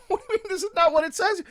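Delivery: high, loud, laughing disbelief; stunned laughing protest at the clerk; incredulous laughing protest. Retold or imitated. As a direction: laugh through the outrage, fast. Arguing with the clerk.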